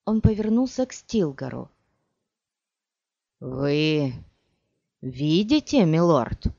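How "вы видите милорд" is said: surprised. Acted. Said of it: "удивлённо спросил Стилгар".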